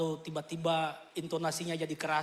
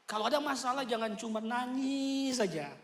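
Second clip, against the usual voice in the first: ordinary delivery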